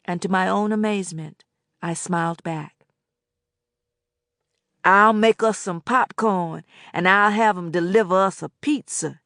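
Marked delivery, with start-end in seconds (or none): 4.8-9.2 put-on coaxing older man. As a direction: tempt her with food. Boatwright coaxing.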